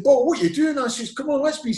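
high-pitched mock panic; imitating a man in a flap; retold flapping. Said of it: "I'm flapping".

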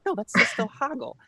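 high goblin voice, playful; Hoggle voice. Pretend. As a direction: slip back into the Hoggle impression. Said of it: "every accent I do for every character ... is Hoggle".

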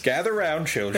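put-on loud storyteller calling the kids round. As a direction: announce it like an old village elder.

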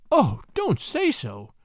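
slow, drawn-out plea; slow imploring plea; pleading. Acted. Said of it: "I pleaded".

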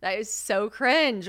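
ordinary delivery

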